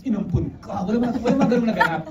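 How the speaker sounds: laughing. Real, not acted. Director joking about what was never said on set, laughing. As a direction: laugh while brushing off the idea. Laughs while voicing mock line.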